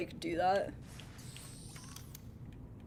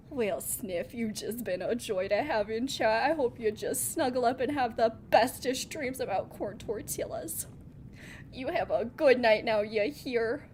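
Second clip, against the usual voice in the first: put-on a gentle Fargo-accent good night. Streamer wishing viewer Sniff good night in a Fargo accent. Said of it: "say good night to me back in a Fargo accent".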